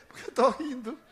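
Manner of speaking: high, rising tone on "rindo"; retold questioning echo. Answering the angry stranger, retold high questioning echo. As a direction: lift "rindo" high with a laugh nearby.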